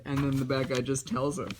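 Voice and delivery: ordinary talk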